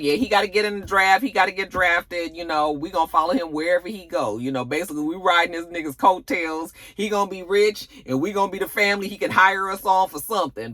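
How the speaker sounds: lightly voiced scheming mother, a bit fast. Mother plotting to ride Zeke's coattails, lightly voiced.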